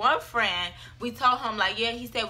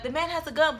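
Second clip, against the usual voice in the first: higher-pitched mild mock yell; retold scream; 5 semitones higher than usual. Telling everyone in the car, mild retold scream. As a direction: imitate screaming without the volume. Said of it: "we're screaming at everyone in the car".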